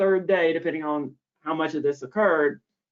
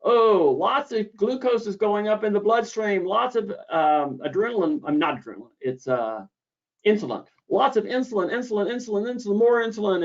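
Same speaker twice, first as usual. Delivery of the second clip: lightly voiced, higher eager brain; a hint of a busy inner voice, pitched up; lizard brain voice; 6 semitones higher than usual. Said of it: "your brain sees".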